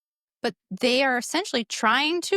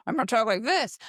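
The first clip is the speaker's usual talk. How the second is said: first voice, close to usual pitch; role-play voice. Shown as a demonstration. Parent practicing different voices with a child, measured first voice. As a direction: demonstrate a measured starting voice. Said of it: "let's speak in different voices".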